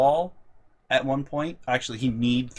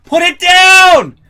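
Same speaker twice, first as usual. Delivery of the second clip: slow, high, very loud order; yelled command; 17 dB louder, much slower than usual. Retold or imitated. Me yelling at brother to put the box down. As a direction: yell at him to drop it.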